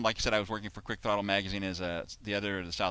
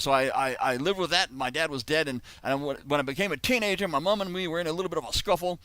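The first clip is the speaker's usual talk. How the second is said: higher-pitched mock Australian yarn; bad Crocodile Dundee accent; 6 semitones higher than usual. The speaker carries on his family story, bad Australian accent. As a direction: keep up the badly faked Aussie. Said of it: "this is my very bad Crocodile Dundee impression".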